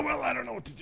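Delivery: squeaky high cartoon voice; helium voice. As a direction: chipmunk squeak after helium. After the helium balloon bit.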